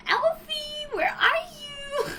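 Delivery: calling a butler like a pet dog; calling for Alfie. Retold or imitated. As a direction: run around yelling for Alfie like a lost dog. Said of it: "my favorite things is going".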